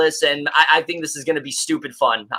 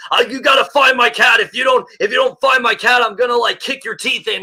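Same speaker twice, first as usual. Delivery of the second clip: higher, louder mock movie-star yell; imitating a screaming Nick Cage; 7 semitones higher, 3 dB louder than usual. Gleefully imitating the trailer for cohosts, a hammed-up shout. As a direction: ham up a frantic hero shouting about his cat. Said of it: "hearing Nick Cage screaming like".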